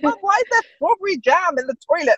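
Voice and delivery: put-on high, innocent little-girl voice; kid's question. Daughter asking mum about the toilet, high childlike curiosity. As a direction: ask it wide-eyed like a small child.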